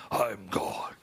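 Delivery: hushed, low whispered voice of God; mock voice of God. Preacher mocking a change of voice into God's, hushed and low. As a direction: drop to a deep, breathy whisper as God speaking. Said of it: "from William Branham's voice to".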